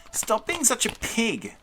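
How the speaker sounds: high-pitched creature scolding; little monster screaming. A narrator's reading. Little monster to greedy big one, screaming. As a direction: screech the complaint high, without much volume. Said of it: "the little one screamed".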